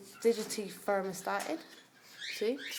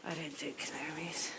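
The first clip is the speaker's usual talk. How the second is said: whispered aside; 6 dB quieter than usual. Real, not acted. Muttered aside about canaries.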